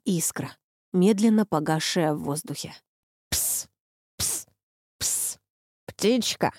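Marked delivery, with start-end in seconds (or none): 3.3-6.5 soft coaxing psst to a bird; hissed coaxing. A narrator's reading. Boris coaxing the chained bird, soft hiss. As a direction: hiss sweetly to lure the bird. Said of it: "ласково прошипел Борис".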